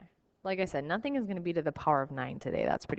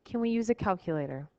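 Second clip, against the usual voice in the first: whiny voice. Retold or imitated. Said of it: "insert your whiny voice here".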